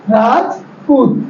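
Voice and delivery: राजपूत said slowly again, a small break after राज; teacher repeating a name to show the break; slow syllable split. Shown as a demonstration. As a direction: stretch out राजपूत with a light break mid-word. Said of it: "हमारी आवाज को एक break मिला".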